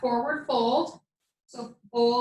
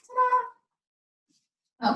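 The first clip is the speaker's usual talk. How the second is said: playful ta-da; 11 semitones higher than usual. Pretend. Reveals adjusted screen to viewers.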